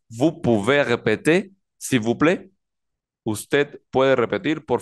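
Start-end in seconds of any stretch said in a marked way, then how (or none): 0.1-2.5 "répéter" ends in a clear "é", no final R; silent final R. Shown as a demonstration. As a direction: say "répéter" as ré-pé-té in the question. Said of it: "la R no suena".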